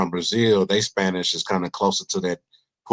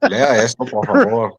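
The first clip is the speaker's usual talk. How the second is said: louder, higher pleading request; mock pleading customer; 3 semitones higher, 5 dB louder than usual. Bank customer asking the teller to read, mock pleading. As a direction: push the letter at him, a bit loud. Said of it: "bank customer handing letter".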